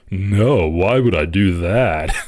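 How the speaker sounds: mock-oblivious retort, drawn out at the end; Bill Maher. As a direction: imitate an out-of-touch host, slowing down. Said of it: "And he's like".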